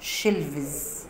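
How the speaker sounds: "شلفز" stretched out slowly, f turned into v plus z; slow plural demo. Shown as a demonstration. Teacher slowly models the plural "شلفز". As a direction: draw out "شلفز" as shelvz. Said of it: "شلف".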